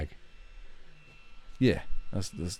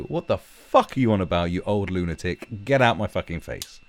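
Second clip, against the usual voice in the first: mock scornful dismissal; 2 semitones higher, 6 dB louder than usual. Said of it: "would just laugh at him and go".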